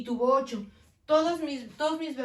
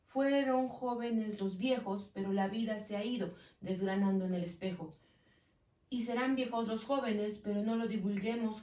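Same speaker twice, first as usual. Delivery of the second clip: measured verse recitation; poem reading; 2 semitones lower than usual. Shown as a demonstration. Teacher rereads the poem to show joined vowels, reciting. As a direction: read the verse aloud to a class.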